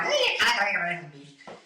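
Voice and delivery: quick imitation of a broad Scottish accent. Relatives in Scotland talking, imitated Scottish accent. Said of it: "when I went to Scotland".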